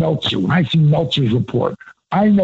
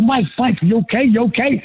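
worried asking; 8 semitones higher than usual. Retold or imitated. Worried friend on the phone.

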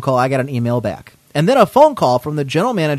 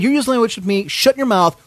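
raised-pitch mock telling-off; retold angry retort; 6 semitones higher than usual. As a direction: cut her off, pitched up. Acted quarrel, teller shouts back.

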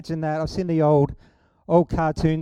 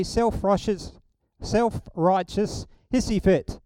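slow, deliberate self-righteous hissy fit, each word spaced; slow careful phrase; slower than usual. Shown as a demonstration. Preacher savouring the tongue-twister, said slowly. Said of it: "You try saying that quick".

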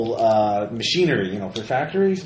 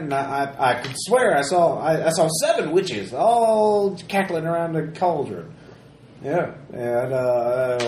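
lightly voiced prospector, a bit higher; a hint of a breathless old prospector; gruff mountain man; 4 semitones higher than usual. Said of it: "the prospector".

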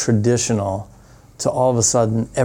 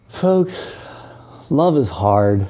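a hint of a solemn PA speech; mock heartfelt announcement; much slower than usual. Over the plane intercom to passengers, lightly mock-solemn. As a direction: lean into it like a sappy announcer. Dramatic mic pitch to cabin.

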